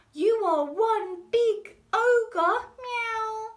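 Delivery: butter up the ogre like a cat; mewing cat. Acted. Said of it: "mewed Puss in Boots".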